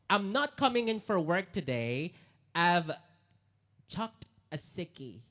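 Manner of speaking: light Australian accent on "chucked a sickie"; read-out Aussie line. Shown as a demonstration. Host reads an Aussie example sentence, light accent. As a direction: read it like a laid-back Aussie. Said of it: "I'm just gonna read the sentence".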